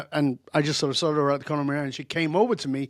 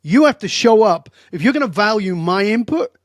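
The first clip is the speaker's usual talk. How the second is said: firm, louder rebuke that hits hard; very direct; 3 semitones higher, 5 dB louder than usual. Retold or imitated. Speaker scolding an entitled would-be speaker, blunt and loud. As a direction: lay down the law to her. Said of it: "'cause I was very direct".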